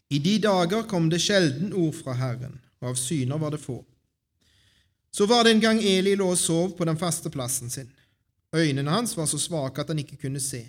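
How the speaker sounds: measured Bible storytelling with pauses; scripture reading. A narrator's reading. Reader shares Samuel's story with the congregation, scripture reading. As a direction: read the chapter out clearly to the congregation. Reads a Bible chapter aloud.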